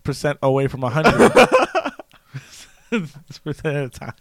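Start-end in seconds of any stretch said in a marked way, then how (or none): 2.9-4.1 put-on English accent. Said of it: "talk to myself in an accent".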